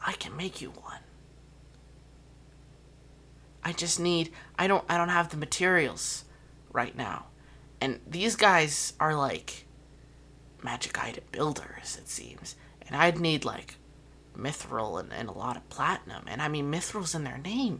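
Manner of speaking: whispered line. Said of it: "tug on your sleeve to whisper to you".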